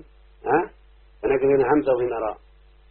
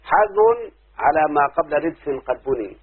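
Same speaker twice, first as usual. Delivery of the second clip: recited verse; 3 dB louder, slower than usual. Shown as a demonstration. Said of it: "الناظم يقول".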